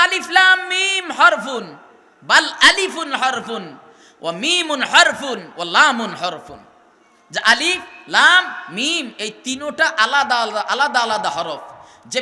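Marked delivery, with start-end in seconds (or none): 0.0-6.1 hadith recited in Arabic. Acted. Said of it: "এই হাদিসে নবীজি বলেন". (ধীর আরবি উচ্চারণে হাদিস)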